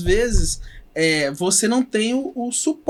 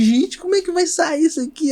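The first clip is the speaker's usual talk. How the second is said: worried; 8 semitones higher than usual. Retold or imitated. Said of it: "Aquela preocupação".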